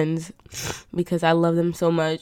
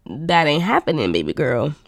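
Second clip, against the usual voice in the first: sassy refusal. Retold or imitated. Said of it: "And I was like".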